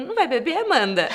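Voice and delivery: laughing. Retold or imitated. Retold question to Mari, laughing.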